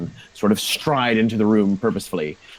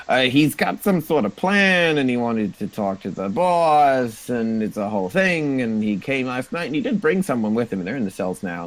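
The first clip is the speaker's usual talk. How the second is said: higher, babbling goblin; lightly voiced goblin, gabbling excuses; nervous goblin; 3 semitones higher than usual. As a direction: ramble like a scared underling.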